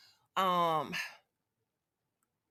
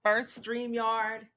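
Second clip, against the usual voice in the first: exasperated; much slower than usual. Real, not acted. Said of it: "I'm so irritated right now".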